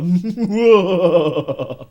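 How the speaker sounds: loud booming villain cackle; loud evil cackle; evil laugh. Pretend. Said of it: "Evil narrator".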